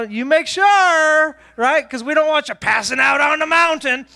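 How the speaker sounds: high, drawn-out cheery warning; mock chipper. Mister Chipper warns the struggling dad, mock chipper. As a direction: stretch it out with phony pep. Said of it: "He's Mister Chipper".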